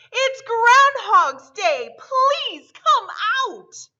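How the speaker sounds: loud, slow crowd cry; town shout. A narrator's reading. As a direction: call it out like a whole town. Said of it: "said with a shout".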